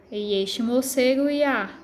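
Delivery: "moce goiá" read slowly, go-i-a glided into one syllable; slow verse reading, melt the vowels in "goiá"; vogais fundidas. Shown as a demonstration. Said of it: "é como se eles se fundissem". ("goiá" com as vogais juntas numa só sílaba)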